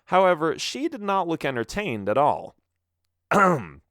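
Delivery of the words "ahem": a loud fake ahem; throat clear. A narrator's reading. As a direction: clear the throat to cover embarrassment. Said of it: "I continued".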